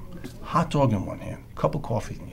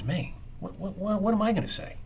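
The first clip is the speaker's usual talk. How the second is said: flustered panic; 10 semitones higher than usual. Retold or imitated. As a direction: voice jumps way up, stammering in mock alarm. Retold panic at the lovebirds.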